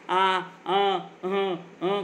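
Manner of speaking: acted drawn-out groans of pain; imitated painful moaning; old man groaning. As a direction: moan slowly as if hurt. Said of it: "म्हातारा विव्हळायला लागतो".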